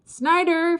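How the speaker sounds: high, loud cry of a name; screaming. A narrator's reading. Ferd racing downhill, screaming for Snyder. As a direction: scream for your missing friend. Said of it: "Ferd screamed".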